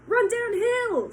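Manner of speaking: high, loud, slow cow shout; cows calling. Acted. Cows calling advice to the fleeing pig, slow and loud. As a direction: bellow the advice slowly. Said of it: "suggested the cows".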